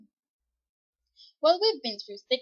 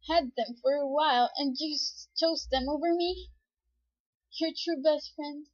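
higher, incredulous reproach; hurt disbelief; 4 semitones higher than usual. Acted. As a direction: question them like a jilted best friend. Betrayed character questions being replaced.

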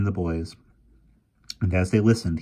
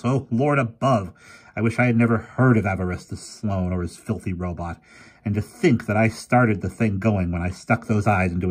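lightly voiced fretful old professor; 4 semitones higher than usual. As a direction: grumble it, blaming himself.

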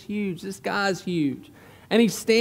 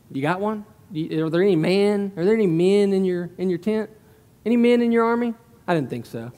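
taunting. Acted. Preacher as Goliath questioning Israel's manhood, taunting. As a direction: needle them with questions, then drop it dismissively. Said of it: "He's taunting them".

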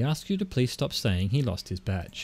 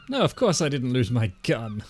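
breezy denial, mildly overdone; lying as truth. Acted. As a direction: deny it like it's the truth. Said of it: "Just say it like it's the truth".

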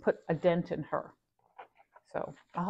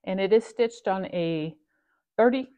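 dry mouth. Real, not acted. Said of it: "sorry, I'm getting dry mouth".

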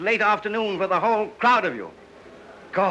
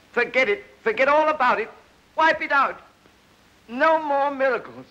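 urgent command; 4 semitones higher than usual. Acted. Renouncing his miracle powers.

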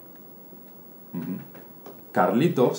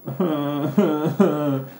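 mock crying; 5 semitones higher than usual. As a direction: fake whimpering child sob, higher. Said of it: "y empieza a llorar". (llanto fingido de niño)

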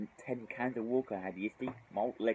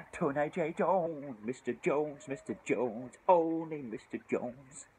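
name hype; 5 semitones higher, much slower than usual. Real, not acted. Hyping a fellow drinker's name.

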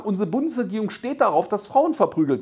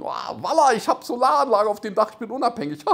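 higher-pitched mock delight, ending in laughter; gleeful homeowner; 4 semitones higher than usual. Homeowner boasting of solar panels, mock gleeful. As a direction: gush proudly, then dissolve into laughing.

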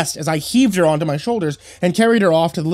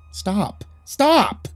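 high, rising urgency; yelled; 7 semitones higher than usual. A narrator's reading. Husband yelling at his frantic wife, urgent yell. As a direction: cry it out, the second higher. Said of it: "I yelled".

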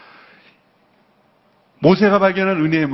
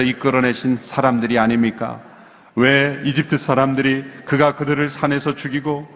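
lower, steady Bible reading voice; scripture reading; 4 semitones lower than usual. Acted. Preacher reading Moses' prayer aloud, measured scripture voice. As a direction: read the passage to the congregation. Congregation reads Exodus passage aloud.

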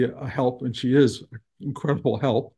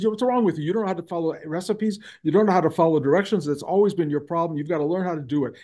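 quick, higher-pitched mock scolding; retold yelling; 4 semitones higher, faster than usual. Teacher berating the cook about recipes, retold scolding. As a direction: imitate a teacher telling someone off, easing toward the end. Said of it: "he's yelling at me".

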